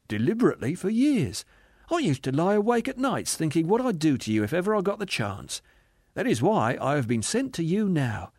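earnest spirit. Acted. Spirit confessing to his old boss, earnest and gentle.

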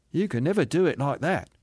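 gentle, lilting contradiction; reassuring spirit. Acted. Spirit comforting the aggrieved ghost, gently reassuring. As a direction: reassure lightly, easing down at the end.

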